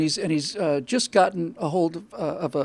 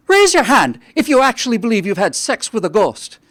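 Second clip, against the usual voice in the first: Irish priest; 4 dB louder than usual. Acted. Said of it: "with an Irish accent".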